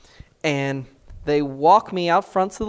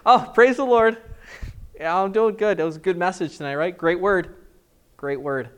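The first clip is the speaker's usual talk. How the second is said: fake cheerful; 4 dB louder than usual. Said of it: "faked cheer to passersby".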